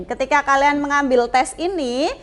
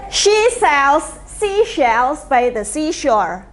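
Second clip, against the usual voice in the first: slow, carefully separated tongue twister; measured teacher's demonstration, phrase by phrase; repeat-after-me model; slower than usual. Shown as a demonstration. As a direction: model it slowly for learners to repeat. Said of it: "You can repeat after me".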